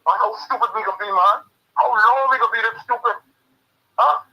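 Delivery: furious caller ranting on live radio; exasperated shout. Real, not acted. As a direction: shout it out in real frustration. Caller venting anger on radio.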